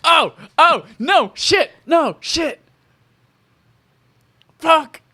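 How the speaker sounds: racking the brain, voice jumps up; excited frustration. Real, not acted. Guest scrambles for the movie title, frantic.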